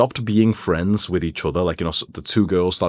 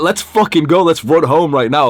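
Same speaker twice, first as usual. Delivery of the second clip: loud, high "we have to go"; urgent urging, retold; 8 semitones higher, 6 dB louder than usual. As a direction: press your friend to leave now. Retold urging friend to flee.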